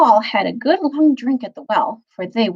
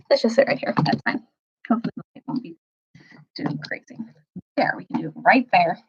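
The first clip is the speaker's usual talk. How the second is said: hushed; 3 semitones higher than usual. Real, not acted. Settling in, hushed before reading.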